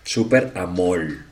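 very slow, low husky name; husky heroine voice. Acted. Comedian repeating the superheroine's name, slow low husky voice. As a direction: stretch it out, soft and husky. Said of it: "Va a tener una voz toda ronquita".

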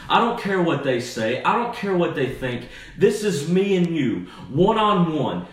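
earnest, building pulpit appeal; impassioned appeal. Acted. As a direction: press each phrase home as God speaking directly. Voices God's direct personal appeal.

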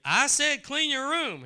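high, loud scolding order; stern parent. Retold or imitated. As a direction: snap it like a fed-up parent.

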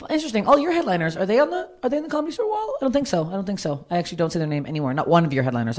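high, sarcastic taunt; petty mocking. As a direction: needle them with a high sing-song sneer.

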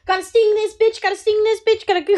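high shrill bee voice; buzzing insect swarm chorus. Acted. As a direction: chant it high and loud like angry bees. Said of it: "buzzing voices".

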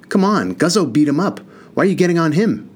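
high, yelping younger brother protesting; yelped protest. A narrator's reading. Younger brother yelps at Ma in his brother's defense. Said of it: "Willie yelped".

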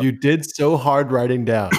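slow, teasing repeat; mocking echo. Cohost mocking his bragging about the notes, slow teasing echo. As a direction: parrot him back slowly to rib him.

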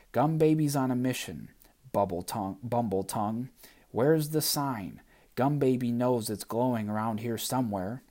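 strut it like a tiny boss; Gum Baby voice. Acted. Gum Baby's mission speech.

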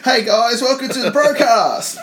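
laughing high broadcast greeting. Acted. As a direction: giggle through a fake intro. Mock host intro, laughing.

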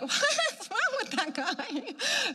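high, slow, giggly tipsy voice; drunk. Retold or imitated. Woman drunk on the Spirit baffled by pastor, mock tipsy. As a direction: play drunk, drawn out and laughing. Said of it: "I'm drunk and".

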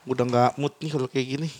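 mock sulk. Joking sulk after teasing.

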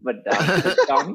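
"Badonkadonk?" said slowly, high and laughing, stumbling over the syllables; slow, giggling, unsure "Badonkadonk?"; laughing attempt. Real, not acted. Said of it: "I can't even pronunciate it".

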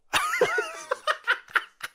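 high helpless giggle; high laugh. Real, not acted. Guest laughs at failing to say Arnold, high giggle. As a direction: laugh off the failed word.

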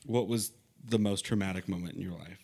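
low, measured question; slow, deliberate reading. Shown as a demonstration. Rereading the trauma question on request, slowly and low. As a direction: read it out slowly and evenly.

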